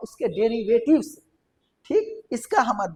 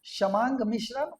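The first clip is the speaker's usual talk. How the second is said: समांग मिश्रण said again slowly, syllable by syllable; slow repeat; 2 semitones higher, 4 dB quieter than usual. Shown as a demonstration. Teacher repeating the new term for students, slow and clear. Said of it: "एक को बोलेंगे समांग मिश्रण".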